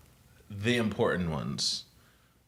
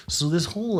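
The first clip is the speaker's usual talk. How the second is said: white guy voice; 9 semitones higher than usual. Retold or imitated. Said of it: "This is my white guy voice".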